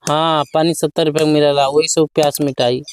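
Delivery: put-on low, slurred drunk; town drunk. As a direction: mumble it like a drunk. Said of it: "पी के आ गेला".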